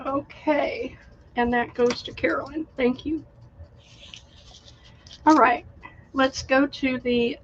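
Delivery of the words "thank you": whispered thanks. Real, not acted. After a coughing fit, quiet thanks.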